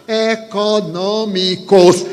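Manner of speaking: econômicos said slowly, each syllable separated. Retold or imitated. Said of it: "pronunciei a palavra bem silabada". (econômicos bem silabado, devagar)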